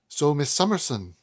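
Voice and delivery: a light, unconvincing Welsh lilt, stately; proud old Welsh lady, accent only hinted; attempted Welsh accent. Proud mother addressing Miss Summerson, faint Welsh accent. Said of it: "that's not a Welsh accent now, is it?".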